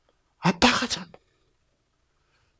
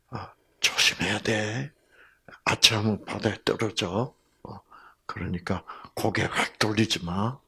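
gentle warning; 3 semitones lower, 6 dB quieter than usual. Retold or imitated. Father gently warns his daughter.

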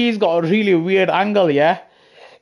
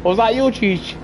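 stunned what; 5 semitones higher, slower than usual. Retold or imitated. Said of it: "I was like".

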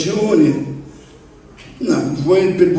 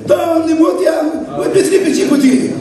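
loud prayer; 8 semitones higher than usual. Retold or imitated. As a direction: pray out loud, stretched and fervent. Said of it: "trebuie să fii mai tare".

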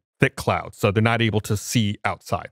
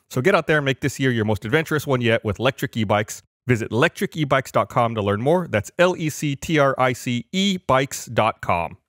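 upbeat sponsor read, bright and brisk; 2 semitones higher than usual. Acted. Podcast host reading an e-bike sponsor spot, upbeat ad read. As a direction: sell the bikes like a radio spot.

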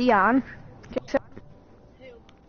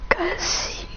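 ghost voice; 7 semitones higher, 7 dB quieter, much slower than usual. Pretend. Teasing friend in voice chat.

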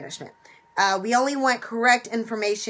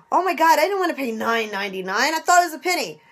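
mock dismay; 3 semitones higher, faster than usual.

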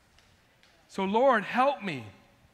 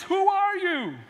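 mock old man; 11 semitones higher, 5 dB louder, slower than usual. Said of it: "He says".

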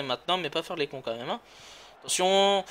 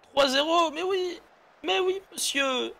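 excited commentator; 11 semitones higher than usual. Real, not acted. Hyped goal celebration.

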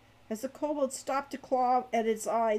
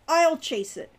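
quick raised-voice declaration, higher and louder; snapped; 6 semitones higher, 8 dB louder than usual. A narrator's reading. Hawk in the kobold fight, snapped. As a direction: snap it out mid-fight. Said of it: "Hawk snapped".

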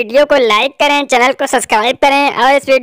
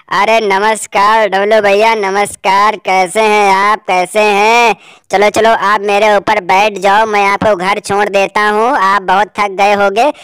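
elephant voice; 4 semitones lower than usual. Acted. Elephant friend speaks.

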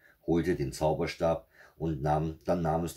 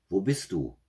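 raised, higher searching call; 4 semitones higher, 4 dB louder than usual. A narrator's reading. Witch looking for her daughter, calling out. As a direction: call out to someone out of sight. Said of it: "Da rief sie".

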